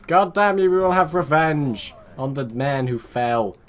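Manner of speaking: hammed-up vow of revenge, loud start then drawn out; mock vengeful cry. Commander spotting a fleet and swearing revenge, mock vengeful. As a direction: play an avenging commander, slowing as you go.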